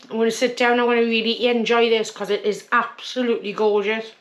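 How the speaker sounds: talking through a mouthful of food; words round a bite of roast; mouth full. Real, not acted. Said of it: "Sorry to talk with my mouth full".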